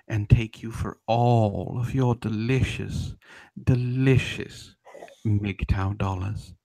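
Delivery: slow, drawn-out mock relish on delicious; savoring mockery. To the copyright claimer, slow mocking relish. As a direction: stretch each word like tasting something sweet.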